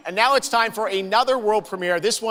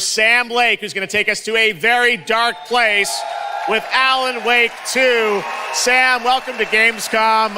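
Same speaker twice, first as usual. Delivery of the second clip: dramatic hype announcement; 4 semitones higher than usual. Real, not acted. Host hypes Alan Wake reveal.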